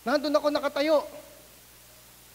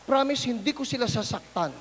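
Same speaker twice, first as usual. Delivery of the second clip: softer meek promise; 5 semitones lower, 6 dB quieter than usual. Retold or imitated. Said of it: "Sabi ko".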